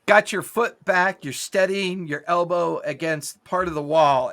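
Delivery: usual speaking voice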